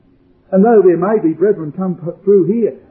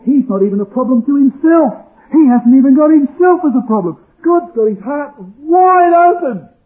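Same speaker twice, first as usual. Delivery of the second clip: raised, high preaching climax; impassioned preaching; 6 semitones higher, 5 dB louder than usual. Real, not acted. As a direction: build loudly to a stretched final phrase. Preacher's climax about God and man.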